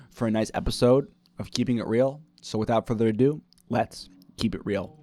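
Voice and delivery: smooth podcast host introduction; easy, measured host's welcome; broadcast voice. Shown as a demonstration. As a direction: open the show like a practised broadcaster. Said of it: "like, this broadcast voice".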